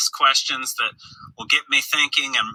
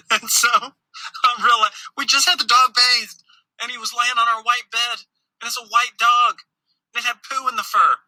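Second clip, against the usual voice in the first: high, laughing disbelief through the words; half-laughing, can't believe it; 9 semitones higher than usual. Real, not acted. Dad telling church viewers about the dog, high laughing disbelief.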